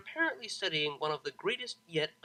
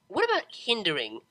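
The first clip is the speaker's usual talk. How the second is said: cheery pegasus; 5 semitones higher, 7 dB louder than usual. A narrator's reading. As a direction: drag out the question happily. Pegasus keeps pestering.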